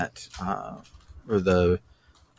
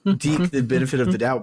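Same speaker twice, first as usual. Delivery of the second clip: laughing; 6 semitones higher than usual. Real, not acted. Laughing at the name mix-up.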